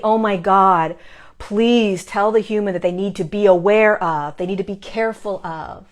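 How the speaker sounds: loud, pleading mock warning; mock alarm. What guides never say to her, imitated alarm. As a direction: imitate an urgent warning, easing off at the end. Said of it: "They don't speak like that".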